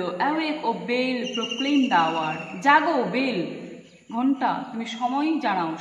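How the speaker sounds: calling out. Shown as a demonstration. Teacher acting the wind at the bell tower, loud call. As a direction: ring it out to the bell. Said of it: "চিৎকার করে বলল".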